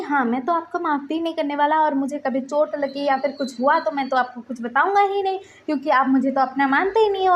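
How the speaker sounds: hurt, indignant reproach; acted anger. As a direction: rant at your brother in mild storytelling anger. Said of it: "गुस्से से उठकर ना वहाँ से जाने लग गया था".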